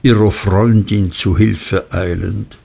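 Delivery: usual speaking voice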